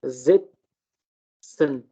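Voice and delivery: जित्सन drawn out very slowly, S as a z; German example word. Shown as a demonstration. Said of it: "एस की sound जो है वो अंग्रेजी के जेड की तरह है".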